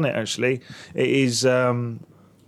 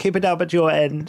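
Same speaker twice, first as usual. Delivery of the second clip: over-the-top tribute; 6 semitones higher than usual. Pretend. Mock tribute to colleague Towley.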